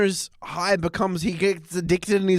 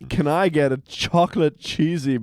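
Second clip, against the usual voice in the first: mock Homer to camera. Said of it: "being like".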